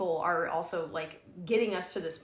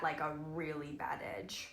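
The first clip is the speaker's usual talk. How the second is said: whisper; 4 semitones lower, 8 dB quieter than usual. Real, not acted.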